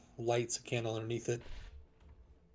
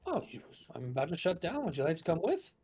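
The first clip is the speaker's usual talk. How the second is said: higher, quick in-character invitation; a hint of a higher-voiced townswoman; lightly voiced friendly character; 5 semitones higher, much faster than usual. Shopkeeper inviting customers along as she shuts down, lightly higher character voice. Game master plays shopkeeper.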